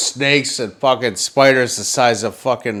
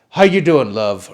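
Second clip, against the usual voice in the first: put-on Australian accent. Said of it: "Australian people really crack me up".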